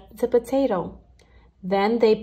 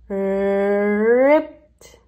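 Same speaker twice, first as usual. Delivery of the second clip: breathy whisper with a drawn-out build; 4 dB louder than usual. Acted. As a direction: whisper it as the big moment arrives. Potato finally pops out.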